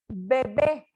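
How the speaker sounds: bebé with both Bs made by the lips; bilabial B. Shown as a demonstration. Teacher giving an example of labial B, pronunciation demo. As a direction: close the lips on each B in bebé. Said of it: "B labial".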